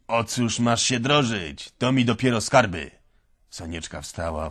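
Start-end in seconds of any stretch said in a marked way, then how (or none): 0.1-2.9 mock her worth with scorn; sarcastic. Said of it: "z przekąsem". (z przekąsem, wolno i głośniej)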